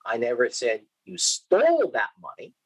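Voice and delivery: "stole" given the main beat; stress on STOLE. Shown as a demonstration. Lecturer showing students emphasis on "stole". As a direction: lean on "stole" as if it was merely borrowed. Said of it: "depending on where I put the emphasis".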